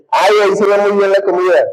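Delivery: mock a woman dropping a hint; hinting girlfriend. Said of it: "y dicen".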